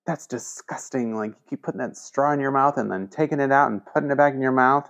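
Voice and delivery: mock disgusted telling-off, pitch lifted; disgusted scolding teacher. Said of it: "used to yell at me".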